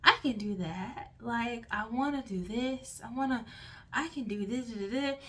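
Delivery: mild calm reassuring inner voice. Retold or imitated. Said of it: "this other calming voice inside you".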